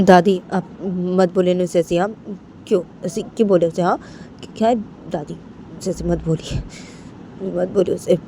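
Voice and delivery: lightly voiced Bani, pleading haltingly; pleading child Bani. (धीमी, अटकती विनती)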